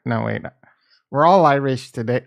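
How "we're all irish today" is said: loud, badly faked Irish accent; failed Irish accent. Streamer greeting viewers on Saint Patty's Day, weak Irish accent. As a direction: attempt an Irish accent and miss. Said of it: "I can't do an Irish accent right now".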